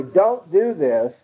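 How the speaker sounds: slow, firm first warning from a parent; plain first "Don't do this" from mom or dad; parent's first warning. Retold or imitated. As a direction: say it once, steady and measured. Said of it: "when mom and dad say".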